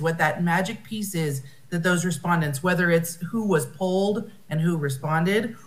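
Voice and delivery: ordinary talk, nothing marked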